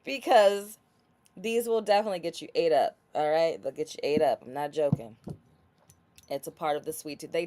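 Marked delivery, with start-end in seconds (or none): 0.0-4.4 louder, fast hype; hyped up. Real, not acted. Pushing the product on viewers, loud and fast. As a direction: sell it hard and quick.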